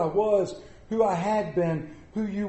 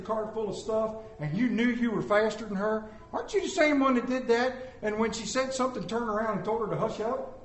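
voice of God; 3 semitones higher, 5 dB quieter than usual. Retold or imitated. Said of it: "And God looks down and says".

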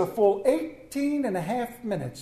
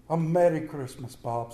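earnest; 4 semitones lower than usual. Acted. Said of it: "with earnestness".

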